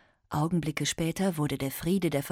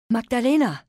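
desperate loud cry; calling out; 8 semitones higher, 8 dB louder than usual. Acted. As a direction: shout the child's name. Mother calls child in chaos.

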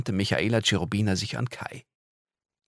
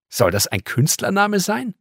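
put-on a much higher, louder girl's voice, openly doubtful; sceptical girl; 12 semitones higher, 6 dB louder than usual. Girl doubting the visitor's name, high and sceptical. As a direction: sneer at the odd name like a cheeky girl.

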